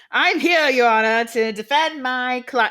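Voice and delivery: a Southern attorney accent, lightly put on. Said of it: "giving him, like, a Southern attorney accent".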